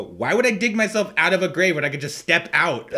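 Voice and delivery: mock indignant comeback. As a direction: toss back a cheeky question, close to laughing. Retold comeback in play fight.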